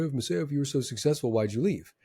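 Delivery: quick, insincere mock question; snide put-on voice. People asking the ex-trader why he left, mock-snide. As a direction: fake curiosity, slightly needling. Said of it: "I put that voice on it".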